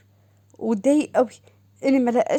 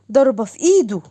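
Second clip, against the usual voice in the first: sister's voice; 6 dB louder than usual. Acted. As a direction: gush over her sister on the phone. Doha curses husband. (صوت أخت متلهفة أعلى)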